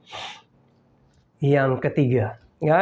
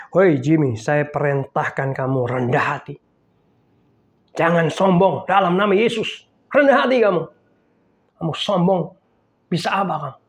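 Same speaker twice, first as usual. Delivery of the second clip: scolding himself. Retold or imitated. Pastor scolding himself in the mirror, mild anger. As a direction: scold yourself firmly, a touch angry. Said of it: "saya marahin".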